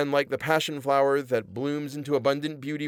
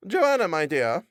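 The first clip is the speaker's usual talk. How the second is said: high, preachy wife's voice; a pious wife defending the parson to her husband; sanctimonious wife; 6 semitones higher, 3 dB louder than usual. A narrator's reading. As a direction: lecture him like a pious scold. Missus Oakley voiced high.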